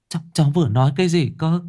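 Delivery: can't believe what she heard; stunned widow asking again; shocked disbelief. A narrator's reading. Aunt hears husband died.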